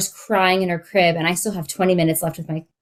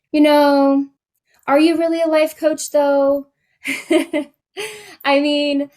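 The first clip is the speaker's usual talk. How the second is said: mocking inner doubt; 7 semitones higher, 3 dB louder than usual. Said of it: "imposter syndrome's telling me".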